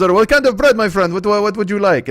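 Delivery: put-on high, loud, eager old shopkeeper; old deli man. Deli owner taking a sandwich order, high and eager. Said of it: "So he goes".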